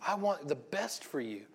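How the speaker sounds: slow, gentle loving father; tender father. Acted. God the Father to his children, slow and tender. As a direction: reassure them slowly, like a loving father. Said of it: "The love of the Father that says".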